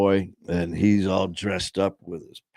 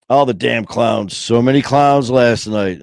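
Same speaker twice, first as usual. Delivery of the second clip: quoting Amber; 2 semitones higher, 8 dB louder than usual. Retold or imitated. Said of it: "Amber says".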